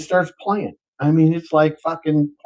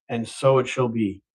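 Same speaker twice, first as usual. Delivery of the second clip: low, softer pronouncement; solemn genie; 6 semitones lower, 6 dB quieter than usual. Acted. Genie granting the million, low solemn voice. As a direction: intone it low like a decree.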